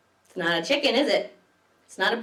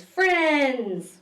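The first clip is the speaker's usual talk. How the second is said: happy exclaim; 5 semitones higher, 3 dB louder than usual. Acted. Last page reads.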